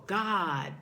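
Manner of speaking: "God" hit firmly, then a pause; stress on God. Shown as a demonstration. Repeating the affirmation, stress on "God". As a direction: lean hard on "God". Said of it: "emphasizing the first word".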